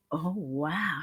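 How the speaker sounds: soft, wondering reaction; hushed awe. Acted. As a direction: marvel quietly at a child's artwork. Acts awed reaction to child's artwork.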